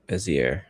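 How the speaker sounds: Bezier as 'BEZ-ee-air', r sounded at the end; trial pronunciation. Shown as a demonstration. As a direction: try out Bezier as 'bezz-ee-air', tentatively. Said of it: "I have no idea how we would say".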